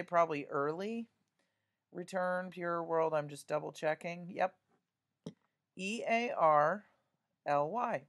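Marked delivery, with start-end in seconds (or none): 5.8-8.0 spelling aloud. Shown as a demonstration. Teacher spells the answer aloud for students, letter by letter. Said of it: "I spell the word out loud".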